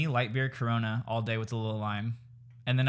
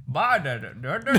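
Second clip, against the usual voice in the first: mock Indian dad; 3 semitones higher, 5 dB louder than usual. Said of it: "Dude, that's like Indian, like".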